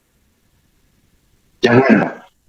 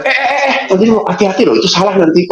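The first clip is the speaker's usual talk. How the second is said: higher, hurried "eh, eh, eh" of a fussing boss; mock alarmed warning; 5 semitones higher, faster than usual. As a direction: play the nervous boss stopping a mistake.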